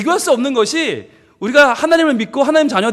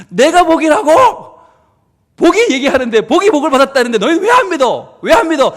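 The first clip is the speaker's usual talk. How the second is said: louder, higher insistent preaching; emphatic preaching; 3 semitones higher, 5 dB louder than usual. Real, not acted. Preacher pressing the congregation, louder and higher. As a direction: press the crowd to believe it.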